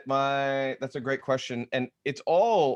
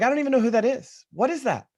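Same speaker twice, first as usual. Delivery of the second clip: retold bewilderment; 10 semitones higher, 5 dB louder, faster than usual. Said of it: "And I'm like".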